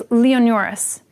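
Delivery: "Leonoris" with each vowel sounded separately; every vowel pronounced. Shown as a demonstration. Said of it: "pronounce every single one of these".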